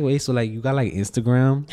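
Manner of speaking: lightly voiced hood Latina girl accent; imitated hood Latina. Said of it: "like, hood baby, like, Latina girls".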